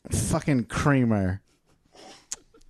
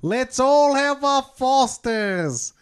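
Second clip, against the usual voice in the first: broad mock Aussie voice, higher pitch; Australian accent; 10 semitones higher than usual. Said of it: "Voiced by Johnny Australia".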